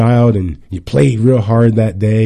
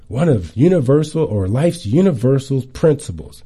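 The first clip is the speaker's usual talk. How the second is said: usual speaking voice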